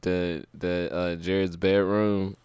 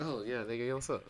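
mock casual greeting; 4 semitones higher, 14 dB quieter than usual. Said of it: "And I was like".

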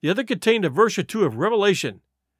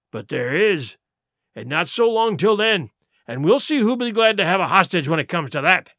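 lightly voiced old pirate, gloating; a sly sea cook taunting his captive; hint of a pirate's sneer; Silver. Silver gloating speech to Jim.

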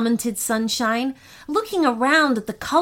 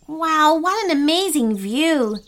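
bright, high and louder with delight; 9 semitones higher, 3 dB louder than usual. A narrator's reading. Sunshine gazing across the island, delighted and high. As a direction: gasp at the view in delight. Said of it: "she said with delight".

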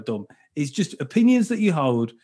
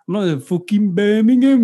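loud mock Black Country accent, higher; 6 semitones higher, 8 dB louder than usual. Mocking a listener's Black Country accent.

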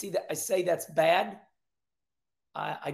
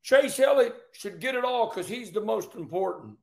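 mocking fans. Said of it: "'cause you say".

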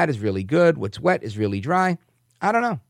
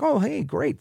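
tag; 11 semitones higher, slower than usual. Retold or imitated. Mock-matching the ecstatic rep's greeting.

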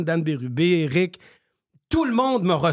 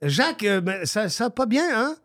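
imitating the caller; 6 semitones higher than usual. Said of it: "il dit".

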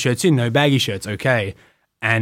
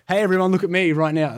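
mock show-off; 6 semitones higher than usual. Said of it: "I'm not one to be like".

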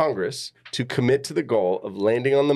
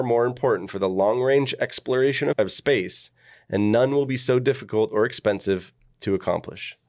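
reading speech aloud. Shown as a demonstration. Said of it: "I'm gonna read this".

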